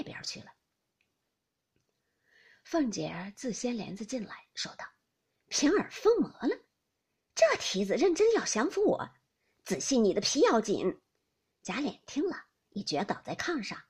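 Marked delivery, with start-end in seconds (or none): 5.5-11.0 loud, high-pitched threat; scolding mistress Fengjie. Acted. Mistress entering after being snubbed by her maid, loud scolding.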